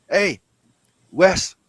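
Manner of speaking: high, loud scolding shout; Japan shouting. Retold or imitated. Japan shouting at the West, exasperated. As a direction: yell it like a fed-up country. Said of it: "Japan has been going like".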